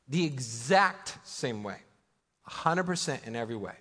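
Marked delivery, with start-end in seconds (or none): 0.1-1.8 slower and lower, each word weighed; slow emphatic repeat. Real, not acted. Preacher repeating his point to the congregation, slow and deliberate. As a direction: repeat it slowly to drive it home. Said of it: "God the Son is the exact same way".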